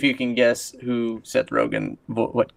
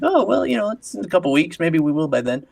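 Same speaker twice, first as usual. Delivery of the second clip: high, airy impression of a clueless guy; a high goofy mock voice; mock dopey voice; 6 semitones higher, 4 dB louder than usual. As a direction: put on a goofy high voice, louder. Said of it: "He's like".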